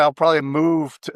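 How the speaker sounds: ordinary talk, nothing marked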